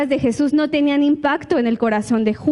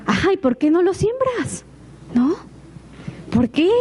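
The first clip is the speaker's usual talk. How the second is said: riendo burlón; 3 semitones higher than usual. Real, not acted. Burla al quejoso.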